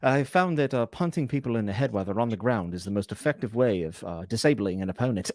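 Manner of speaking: lightly imitated deadpan martial arts master; a hint of a creepy, matter-of-fact expert; John Danaher. Mimicking the creepy jujitsu master for a friend, light impression. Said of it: "It's a pretty good impression".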